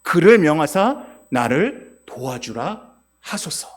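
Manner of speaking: loud, aggrieved appeal, slowing at the end; loud indignant plea, slow at the close; resentful plea. Retold or imitated. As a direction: Martha loudly pleading with Jesus against her sister. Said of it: "뭐라고 얘기합니까?".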